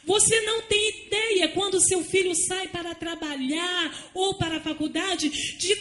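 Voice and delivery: loud, slow, drawn-out preaching with rising pitch; fiery preaching. Acted. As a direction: thunder the warning to the congregation. Preaching at full force.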